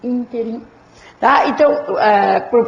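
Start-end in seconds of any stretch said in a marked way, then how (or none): 0.0-0.7 "ínterim" with emphasis on first syllable; stress on ÍN. Shown as a demonstration. Teacher confirming the tonic syllable, ÍN stressed in "ínterim". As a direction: lean lightly on ÍN in "ínterim". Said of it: "A sílaba tônica é o in".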